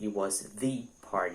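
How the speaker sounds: heavy emphatic stress on the word the. Teaching emphasis on articles, saying it was the party with strong stress on the. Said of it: "quando você enfatiza os artigos, você tem que colocar a pronúncia é, enfatizada".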